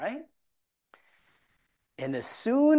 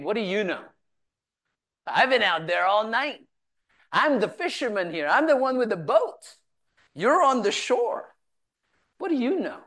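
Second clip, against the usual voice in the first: indignant retort; 4 semitones higher than usual. Retold or imitated. Fisherman scoffs at the man on the shore, indignant and rising.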